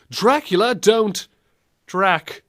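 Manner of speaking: a light crooner-style Dracula croon; classic crooner voice. Pretend. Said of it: "giving Dracula a crooner voice".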